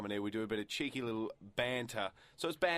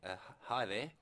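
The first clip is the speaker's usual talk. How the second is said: lightly voiced politician on the phone; a hint of an impression in a phone greeting; Tony Abbott. Prank caller greets co-host, light Tony Abbott impression. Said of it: "you sound a lot like Tony Abbott".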